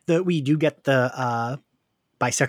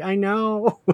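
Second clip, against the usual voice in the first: higher, drawn-out agreement; emphatic agreement; 5 semitones higher than usual. Retold or imitated. Host agreeing with manager about local accents, emphatic. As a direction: raise and stretch it in agreement. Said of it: "I was like".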